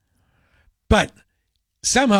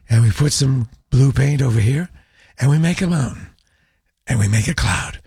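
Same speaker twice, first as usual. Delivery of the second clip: gentle TV painter voice; 2 semitones lower than usual. Retold or imitated. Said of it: "this guy talks like that".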